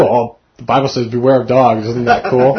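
half-laughing, playing his younger self who thinks it's cool; remembering his boyhood thrill at the verse, with a laugh; childish delight. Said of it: "as a kid, I always thought it was cool".

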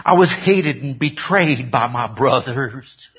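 slow, hammed-up Southern drawl; lightly put-on Southern accent. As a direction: play the betrayed brother in slow Southern. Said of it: "all of a sudden turned Southern".

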